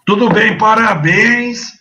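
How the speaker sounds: booming over the line; loud. Real, not acted. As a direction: belt out the congratulations. Guest booming congratulations.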